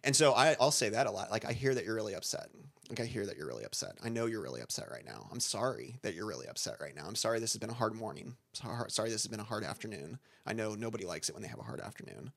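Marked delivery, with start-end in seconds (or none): 1.4-12.3 calm reflective talk. Shown as a demonstration. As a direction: keep dropping your voice as they rage. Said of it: "as they get louder, I get quieter".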